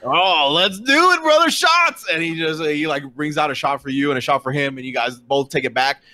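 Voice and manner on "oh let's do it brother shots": slow build to a high holler; acted party-bro cheer; rowdy excitement. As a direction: whoop it up for drinks. Orc eagerly agrees to shots.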